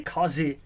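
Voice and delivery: COZY as "KAW-zee", open vowel without a glide; own pronunciation. Real, not acted. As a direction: say COZY with AW in the first syllable. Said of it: "That's the way I pronounce it".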